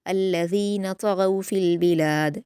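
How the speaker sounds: slow, melodic Quranic recitation; measured Quran recitation; tajweed recitation. Shown as a demonstration. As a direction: recite it slowly and carefully as a model for students. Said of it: "त्वा और गैन को पुर पढ़ा जाएगा".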